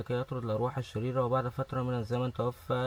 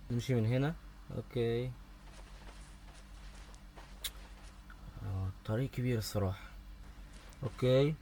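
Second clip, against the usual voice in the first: kept down softly for the game; hushed gamer commentary; low voice; 6 dB quieter than usual. Real, not acted. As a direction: talk softer so the game won't hear you. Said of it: "فانتوا هتلاقي دايمًا صوتي واطي جدًا".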